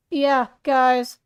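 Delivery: loud, energetic character voice; Frank's voice. Acted. Getting into character as Frank, loud energetic voice. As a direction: punch it out with big energy. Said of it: "I gotta get the energy".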